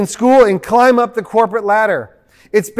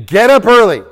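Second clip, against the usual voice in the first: mock commandment; 5 dB louder than usual. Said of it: "an eleventh commandment".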